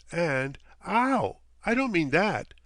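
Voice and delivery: high, loud catch of breath; startled blurt. A narrator's reading. Guest catching his slip before the captain, high and loud. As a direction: catch yourself mid-sentence.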